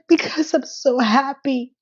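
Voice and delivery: high, drawn-out mock weeping; hammed-up tearful wail, slow; ugly cry. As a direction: imitate someone bawling through the words. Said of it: "what she was doing was ugly cry".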